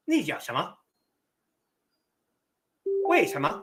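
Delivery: 你讲什么 and 为什么 said with flat even tones, no rising end; 平调问句; flat Chinese question. Shown as a demonstration. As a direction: Mandarin question with a level tune, no lift at the end. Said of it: "a question in Chinese isn't going to raise".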